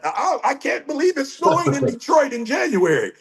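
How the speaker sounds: a mocking imitation of someone shocked by snow; mock whine. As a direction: mimic a spoiled complainer. Mocking people who complain.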